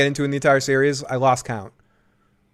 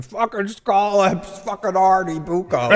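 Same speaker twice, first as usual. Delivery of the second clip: Tony Soprano impression; 5 semitones higher, slower than usual. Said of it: "when he's like".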